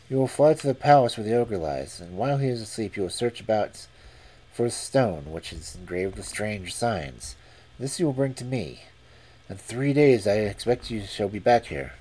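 lightly voiced young master giving orders; young man voice. Young man instructs the falcon.

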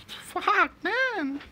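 loud, very high raging scream; real angry high shout; furious yell. Real, not acted. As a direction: scream it at the screen. Rage at conceded goal.

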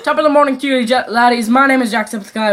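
put-on loud, lightly done Irish accent greeting; Jacksepticeye. Boy takes over YouTuber intro, loud Irish accent. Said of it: "You do, Jacksepticeye".

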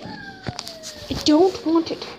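high, slow, soft whine; whiny voice. Acted. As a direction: drag it out, high. Drawn out high voice.

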